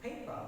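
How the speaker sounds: PAPER with the stress on PAY; first-syllable stress. Shown as a demonstration. Teacher showing stress on first syllable, stressed model word. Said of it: "Stress is on first syllable".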